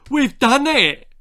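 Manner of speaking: very high, loud, jubilant shout; triumphant. A narrator's reading. Mister Cluck cheers to the messenger, high and loud. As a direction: cheer it out in victory.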